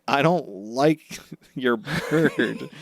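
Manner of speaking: slow words broken by a laugh. Retold or imitated. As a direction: laugh through the line. Quoting Zoro, laughing.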